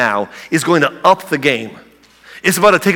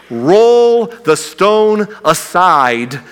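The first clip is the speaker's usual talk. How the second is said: slow, drawn-out, louder command; 3 semitones higher, 4 dB louder, much slower than usual. Acted. Jesus ordering the tomb opened, slow booming command. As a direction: stretch every word like an order.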